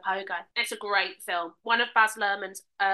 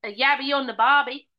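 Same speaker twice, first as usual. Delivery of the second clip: put-on Australian twang; mock-Australian voice; Australian accent; 5 dB louder than usual. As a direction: say it as a stock Australian. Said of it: "That's what people from Australia say".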